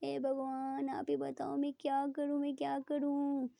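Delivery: mild mock confusion to coax a smile; playful teasing. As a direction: lightly tease her, acting helpless. Ishani teases sulking Preeta.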